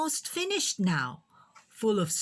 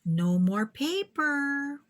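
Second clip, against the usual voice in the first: warning; 5 semitones higher, slower than usual. Acted. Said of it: "warned Missus Lee".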